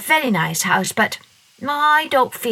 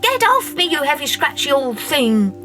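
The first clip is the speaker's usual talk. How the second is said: put-on angry girl; 8 semitones higher than usual. A narrator's reading. Masha kicking her blanket away, high and angry. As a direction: shove the blanket away with a cross child's cry.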